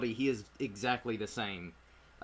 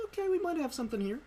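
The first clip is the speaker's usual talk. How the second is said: studio exec voice; faster than usual. Retold or imitated. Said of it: "Fox was like".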